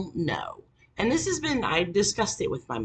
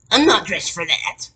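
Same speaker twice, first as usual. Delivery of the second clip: mock whiny boyfriend; 3 semitones higher, 6 dB louder than usual. Boyfriend complaining.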